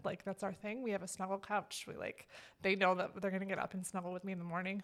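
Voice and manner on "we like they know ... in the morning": choked-up, near whisper; holding back tears as she speaks; emotional whisper. Real, not acted. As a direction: voice catching with emotion. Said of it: "See, I'm getting emotional".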